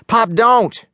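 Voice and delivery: a son pleading with his father to stop; yelled. A narrator's reading. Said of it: "he yelled".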